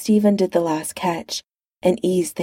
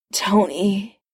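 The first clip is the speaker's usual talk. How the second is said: rough mutter. Acted. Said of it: "he muttered roughly".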